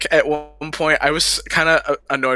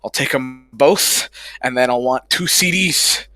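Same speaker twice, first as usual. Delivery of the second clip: slower, savoring each word; slow, drawn-out restatement; slower than usual. Retold or imitated. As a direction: fan at the merch table, drawn out and slow. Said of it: "laughs, then repeats slower".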